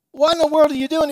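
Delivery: high, loud startled cry; shocked shout. Retold or imitated. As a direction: yell in disbelief at your buddy. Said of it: "And the guy goes".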